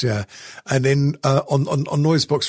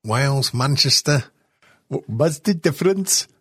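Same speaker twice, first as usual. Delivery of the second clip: put-on Welsh accent; 2 semitones higher than usual. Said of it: "now that was a Welsh accent".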